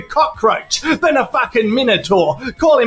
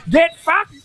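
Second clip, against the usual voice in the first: "Get fucked" higher and punched on "get"; sharper retort; 5 semitones higher than usual. Acted. Doug firing back at Chad, sharper retort. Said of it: "he says".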